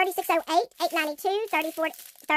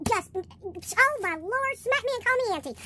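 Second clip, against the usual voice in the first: flabbergasted; 4 semitones higher, slower than usual. Real, not acted. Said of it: "I'm so surprised I can't even talk".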